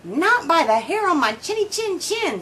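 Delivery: a hint of a little pig squealing. A narrator's reading. Pig answers the wolf through the door, a mild squeal. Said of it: "squeals the pig".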